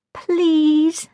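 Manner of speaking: high, drawn-out plea; begging. A narrator's reading. Sophia pleads with Jack to listen, begging. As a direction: beg him to hear it. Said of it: "I begged".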